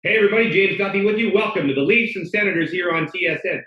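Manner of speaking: booming sports host welcome; loud TV voice. Shown as a demonstration. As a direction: project it like you're live on air. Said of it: "And I will talk this loud".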